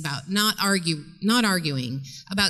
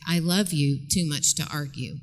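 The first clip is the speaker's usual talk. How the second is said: calm and sincere; 4 semitones lower than usual. Shown as a demonstration. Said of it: "just look at her and say".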